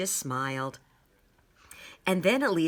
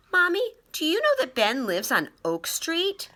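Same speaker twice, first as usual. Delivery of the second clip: eager; 12 semitones higher, 5 dB louder than usual. Acted. Child eagerly hinting to mother.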